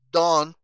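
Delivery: "don't" fuerte, con la T final bien marcada; T final pronunciada. Shown as a demonstration. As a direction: pronuncia "don't" soltando claramente la T del final. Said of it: "estoy pronunciando la T al final". ("don't" con T final nítida y enfática)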